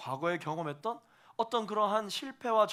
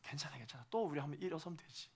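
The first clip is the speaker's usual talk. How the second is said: much softer, gentle comfort; God comforting a stumbling believer, quiet and kind; soft reassuring God; 7 dB quieter, faster than usual. Acted. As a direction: hush and forgive.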